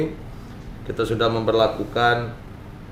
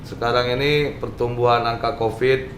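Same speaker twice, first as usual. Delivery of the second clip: muffled behind a mask; talking with a mask on; through a face mask. Real, not acted. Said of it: "Ini kita pakai masker ini".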